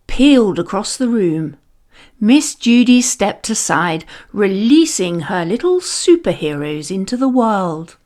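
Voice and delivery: ordinary delivery, nothing marked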